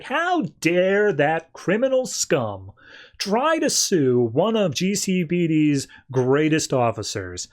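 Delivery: high, drawn-out theatrical outrage; hammed-up indignant villain; mock indignation. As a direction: draw it out, haughtily appalled, pitch swooping up. Villain outraged at lawsuit news.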